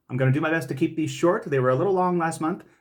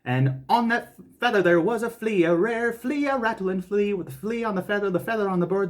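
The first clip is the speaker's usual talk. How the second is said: high, slow, careful recitation; slow and deliberate; 4 semitones higher than usual. Shown as a demonstration. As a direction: take it slow, word by word. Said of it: "then we'll do it slow".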